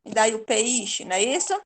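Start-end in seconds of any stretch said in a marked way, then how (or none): 0.4-1.0 "peixe" as pe-I-xe, I on its own; separated vowels. Shown as a demonstration. Teacher mocks asking for fish, "peixe" with E and I split. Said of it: "Senão ficaria peixe".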